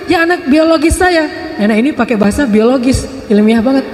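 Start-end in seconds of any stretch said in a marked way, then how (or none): 0.1-1.2 emphatic mock shout. Grandmother insists to Musa.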